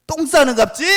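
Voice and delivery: high, loud crude Jeolla jeer; Jeolla dialect taunt. Acted. Elijah in Jeolla dialect jeering at the god, loud. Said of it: "전라도 버전으로".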